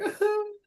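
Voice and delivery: high little mock sob; mock crying. Game master acting a grieving girl, mock sobbing. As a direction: imitate a girl crying, briefly. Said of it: "like crying over it".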